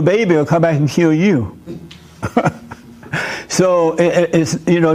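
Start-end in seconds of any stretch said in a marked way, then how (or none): 2.2-2.7 short, soft chuckle; short laugh. Real, not acted. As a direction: let out a brief quiet laugh. Own short laugh after blunt remark.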